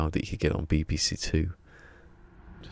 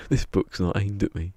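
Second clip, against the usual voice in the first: "This book's not aimed at me" said louder and punchier, with a stress on "This"; comedian's punchline, louder; punchline delivery, louder; 3 semitones higher, 5 dB louder than usual. Retold or imitated. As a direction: land the punchline, hitting "This". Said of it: "that was the punchline".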